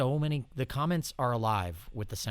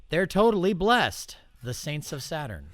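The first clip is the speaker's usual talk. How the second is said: hammed-up slogan; 5 semitones higher, 6 dB louder than usual. Real, not acted. Hamming up band slogans.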